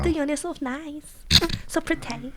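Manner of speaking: sweet salon-worker voice in a put-on Asian accent; imitating Asian accent. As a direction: gush like a nail salon lady, Asian accent. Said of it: "She does the whole, like, you know, Asian accent".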